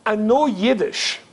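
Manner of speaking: slow imitated German accent. German caller bans Yiddish, German accent. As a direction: lay down a last rule, German-accented. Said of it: "in this German accent".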